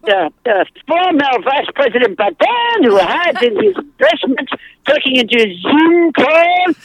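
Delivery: hammed-up French accent, key words drawn out; pompous put-on French for comedy; bogus French accent. Shown as a demonstration. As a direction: lay the fake French on thick. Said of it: "it's really fun to do a bogus French accent".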